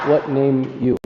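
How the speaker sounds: what name you said slowly word by word; word-for-word literal. Shown as a demonstration. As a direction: read it as a literal gloss. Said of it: "this literally means".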